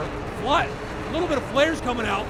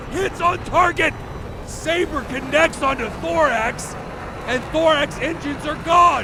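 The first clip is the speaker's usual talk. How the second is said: excited; 4 semitones higher than usual. Real, not acted. Kill call.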